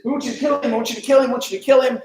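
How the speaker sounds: insistent repeated demand, like a mob; imitated screaming crowd. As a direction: hammer it out as a clamoring crowd. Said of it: "they were just screaming and screaming and screaming".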